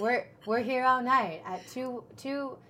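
slow late-night radio patter; lightly put-on late-show voice; late night host. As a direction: draw the number out like a night host. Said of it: "like, a late night vibe".

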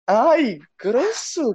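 high, whiny "how rude"; mock offended. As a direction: play at being hurt. Reage ofendida de brincadeira. (ofendida de brincadeira)

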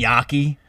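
"gnocchi" with an open AH, NYAH-kee; mispronounced gnocchi. Shown as a demonstration. Showing co-host how some people say it, "gnocchi" as NYAH-kee. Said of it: "Some people say gnocchi".

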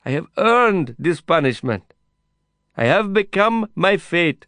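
high, loud begging. A narrator's reading. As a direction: beg him over the noise. Heated exchange through prison wire.

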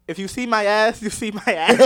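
retold brash, loud tone; imitated aggression. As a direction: mimic a roommate's brash announcement. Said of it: "she sounded aggressive".

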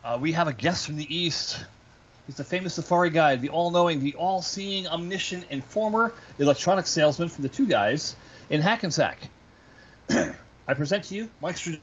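grand showman introduction; announcer voice. Acted. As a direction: build up the guest's entrance.

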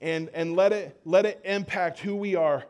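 fervent, rising then softening prayer; earnest prayer. Real, not acted. Pastor prays over the congregation before the sermon, fervent then hushed. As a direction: pray over the listeners' hearts.

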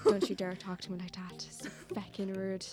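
low mock-angry Irish accent. Shown as a demonstration. Showing friends she's better Irish when angry, mock-angry Irish accent. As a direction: play cross in an Irish accent, voice dropping away. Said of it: "I'm better Irish when I'm, like, angry".

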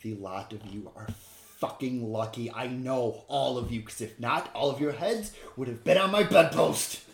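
furious in-character telling-off, building; angry threat. Acted. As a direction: lay into the group, rising to a loud threat. Game master voices angry character.

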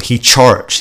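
"charged" picked out with amused scorn; mocking emphasis. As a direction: relish the word "charged". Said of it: "I love that. It's such a little word".

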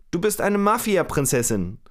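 a teasing classmate calling out, retold; mock taunt called out. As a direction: classmate mocking Rita, called after her lightly. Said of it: "ruft sie Rita nach".

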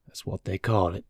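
calm, unbothered acceptance; mildly resigned, even reply; placid. A narrator's reading. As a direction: answer placidly, slightly softened. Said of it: "he said placidly".

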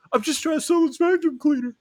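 squeaky high pleading through laughter; cracking up mimicking the salesman; laughing impression. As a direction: salesman voice lost to giggles. Salesman pleading, laughing while telling.

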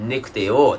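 "ねくてよ" contracted in Yamagata dialect. Shown as a demonstration. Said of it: "でも山形はね". (山形弁で「ねくてよ」)

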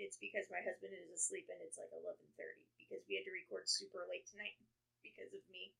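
talking softly so husband sleeps; quiet at night. Real, not acted. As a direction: keep it quiet, someone's asleep. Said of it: "And if I'm really quiet".

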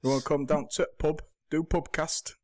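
put-on Yorkshire invitation; casual mock Yorkshire; Yorkshire accent. Shown as a demonstration. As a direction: demonstrate a broad Yorkshire accent. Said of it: "even attempt a Yorkshire one".

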